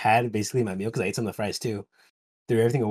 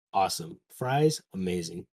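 normal talking voice

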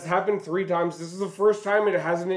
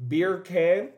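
British accent. Shown as a demonstration. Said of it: "in a British accent".

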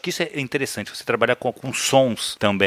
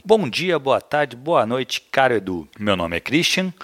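reading aloud. Real, not acted. Podcast co-host reading a listener's email to the host, reading aloud. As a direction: read it out in measured, sentence-by-sentence phrasing.

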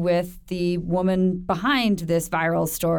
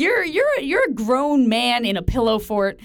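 mock scolding; 4 semitones higher than usual. Scolding cohost like a parent.

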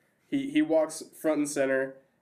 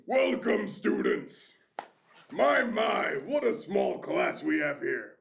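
booming voice from a tiny halfling; unexpected principal voice; 8 semitones higher than usual. Acted. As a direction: speak big and grand like an orc-sized man. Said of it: "his voice is nothing like you'd expect".

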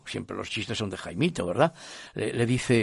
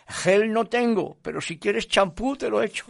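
raised, higher calling voice; calling back; 9 semitones higher, 3 dB louder than usual. Acted. Spaniard answers man overboard, calling out.

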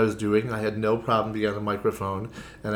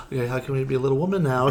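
little different voice; 4 semitones higher, faster than usual. Retold or imitated. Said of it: "my voice went a little different".

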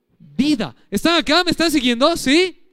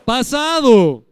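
Pasado said very slow and louder; emphatic past; 5 dB louder, much slower than usual. Shown as a demonstration. Preacher stressing the past tense to the church, slow and loud. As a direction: drag out Pasado to drive it home. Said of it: "Los dos son pasados".

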